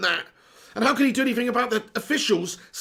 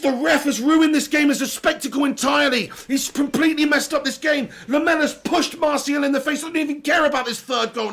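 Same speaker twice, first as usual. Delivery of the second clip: raised, louder furious rant at the ref; real angry rant; 4 semitones higher, 4 dB louder than usual. Real, not acted. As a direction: let the outrage spill out, higher and louder. Fan raging at referee decision.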